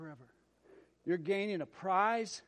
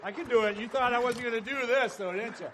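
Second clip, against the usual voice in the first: panting after a workout; winded between words; out of breath; 5 semitones higher, 6 dB louder than usual. Real, not acted. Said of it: "I gotta catch my breath".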